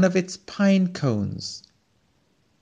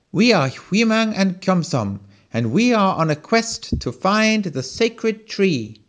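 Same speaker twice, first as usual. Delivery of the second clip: higher, bright-eyed little adventurer; eager little tiny; 6 semitones higher than usual. A narrator's reading. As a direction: announce the quest proudly as a small hero.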